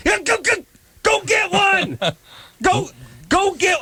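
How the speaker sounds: very high, hammed-up hick cheerleader voice; Enos from Dukes of Hazzard. Patient imitating himself cheering the dentist on, high goofy Enos voice. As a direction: squeal it like a goofy country deputy. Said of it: "I just sounded like, uh, Enos from Dukes of Hazzard".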